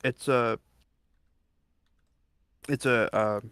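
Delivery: talking with a mouth full. Real, not acted. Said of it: "my mouth is full of food".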